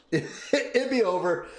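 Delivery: "It'd be over" said slowly through a laugh. Real, not acted. Streamer imagines his son noticed, slow and laughing. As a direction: giggle out "It'd be over" as a dreamy joke.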